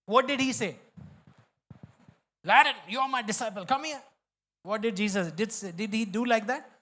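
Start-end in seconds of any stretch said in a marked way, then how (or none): 2.4-4.0 mock scolding. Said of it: "Have you seen Jesus scolding?".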